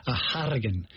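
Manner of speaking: mimicked Irish rolled R in Harrigan; "Harrigan" with an exaggerated, trilled Hollywood-Irish R. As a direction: roll the R hard in "Harrigan". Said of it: "rolling the R like that".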